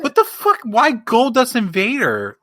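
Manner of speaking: high-pitched baffled outburst; incredulous. Retold or imitated. Wrestling fan retells his reaction to the team line-up, incredulous. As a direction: recall your disbelief, pitch way up. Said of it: "and I'm like".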